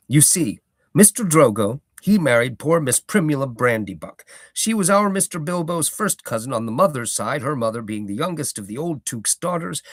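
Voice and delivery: old hobbit gardener, lightly voiced, proud; a touch of a rustic old gardener holding forth; Gaffer's voice. Gaffer explaining.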